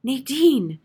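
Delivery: high, loud scream for the maid; shrieked summons. A narrator's reading. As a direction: scream the name out. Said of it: "Missus Plummer screamed to the maid".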